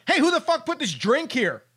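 lightly acted indignant challenge; irritated star calling someone out; Jordan. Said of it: "Jordan would be like".

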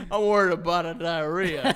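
a mocking imitation of a worried friend; lightly mimicking a nervous buddy; mocking quote. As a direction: parrot the line back to tease him. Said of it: "you just said".

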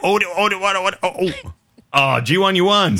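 very high, loud excited squeal. Pretend. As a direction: squeal like a game show host. Mimes an imaginary coin flip.

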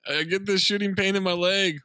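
mock southern accent on "I get this shooting pain". Host imitating De Niro's southern accent to Travolta. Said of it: "Where the fuck did this southern accent come from".

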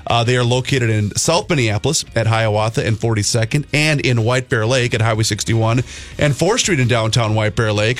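upbeat sponsor plug, announcer cadence; host welcoming listeners back and plugging sponsor; radio announcer read. Acted. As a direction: pitch the sponsor like a DJ. Radio sponsor read after break.

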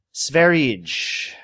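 Sverige said the Swedish way, SVEH-ree-geh; Swedish pronunciation. Shown as a demonstration. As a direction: say Sverige like a Swede, as a question. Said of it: "trying not to butcher the pronunciation".

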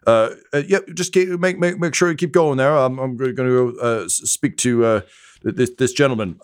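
nervous worker. Acted. Nervous worker stammers to crewmate.

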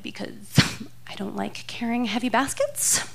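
whispered, laughing excuse; sheepish excuse. Pretend. Caught shoplifter whispering a lame excuse to the guard. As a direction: breathe the excuse with a nervous laugh.

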